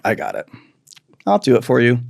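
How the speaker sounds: a hint of low, soft condescension; smug know-it-all. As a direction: talk down like the smartest one in the room. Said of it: "I call them the pickle jar people".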